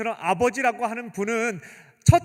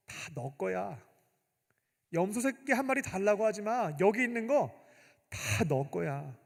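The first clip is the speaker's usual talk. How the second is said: reassuring father. Retold or imitated. Father tenderly reassuring his hurt eldest son. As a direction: reassure him everything is his.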